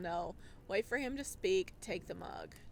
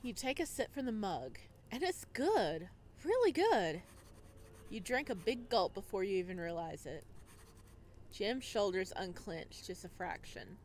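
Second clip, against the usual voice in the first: calm, measured storytelling voice; story narration; 3 semitones lower than usual. A narrator's reading. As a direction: read it like an audiobook narrator.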